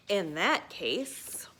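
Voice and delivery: slow scheming whisper; sly whisper. Acted. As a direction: breathe it like a secret plan. George's sly aside.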